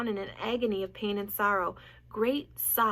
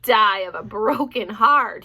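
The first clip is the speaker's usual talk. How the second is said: mimicking Wilbur; 10 dB louder, slower than usual. A narrator's reading. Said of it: "he mimicked".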